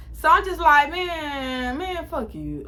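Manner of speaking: put-on choked-up crying words to the boyfriend; retold crying. Girl on the phone to her cheating boyfriend, retold through tears. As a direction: sob it out, half laughing at yourself.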